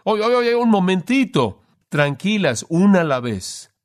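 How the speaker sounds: mock-flustered men calling for calm; excited men. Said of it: "estos nueve hombres están diciendo".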